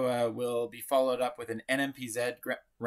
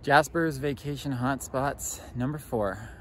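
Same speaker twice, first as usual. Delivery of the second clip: TV host intro; slower than usual. Pretend. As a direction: draw out the title like a host. Mock show intro, number four.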